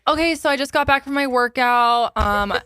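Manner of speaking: influencer voice. Retold or imitated. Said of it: "pretending to be an influencer".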